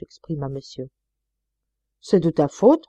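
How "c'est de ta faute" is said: louder, bitter blame; sour reproach. Acted. Wife reproaching her husband after the failed dinner, sourly. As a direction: throw the blame at him sourly. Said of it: "reprocha aigrement madame".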